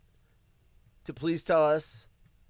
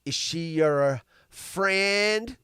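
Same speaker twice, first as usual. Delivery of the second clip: quoting the clip; much slower than usual. Retold or imitated. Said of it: "Every time I hear the word friend".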